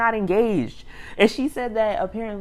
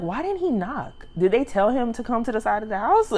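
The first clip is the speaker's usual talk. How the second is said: higher-pitched, puzzled question; puzzled reaction; 4 semitones higher than usual. Retold or imitated. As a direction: voice your own bafflement, pitched up. Her puzzled reaction retold.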